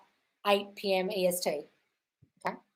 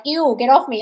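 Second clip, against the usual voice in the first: mock disgust; 3 semitones higher, 9 dB louder than usual. Shown as a demonstration. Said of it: "just say".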